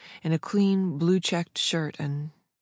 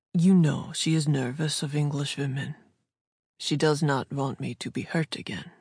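put-on careful English with a German accent; lightly voiced man with a German accent; slight German accent. A narrator's reading. Jacob explaining his sister's nerves, slight German accent. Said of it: "in his slight German accent".

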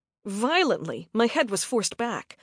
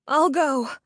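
frightened agreement; 4 semitones higher, 5 dB louder than usual. A narrator's reading.

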